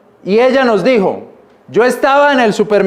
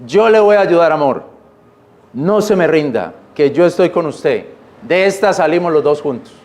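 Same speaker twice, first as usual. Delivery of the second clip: wife encouraging; 5 semitones lower than usual. Retold or imitated. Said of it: "su mujer le dice".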